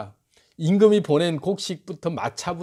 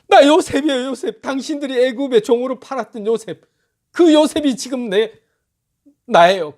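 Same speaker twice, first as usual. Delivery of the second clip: higher and louder, 나 punched hard; emotional outcry; 6 semitones higher, 5 dB louder than usual. Acted. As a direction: cry it out, 나 요셉이에요 with full force. Joseph revealing himself to brothers.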